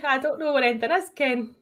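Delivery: lightly put-on East Coast Scots accent ending on Ken; mock East Coast accent, tagging Ken on the end; a hint of an East Coast Scottish accent. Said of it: "just say Ken at the end of it".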